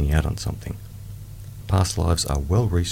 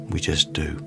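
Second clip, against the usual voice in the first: guided meditation; slower than usual. Acted. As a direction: ease the listener into calm.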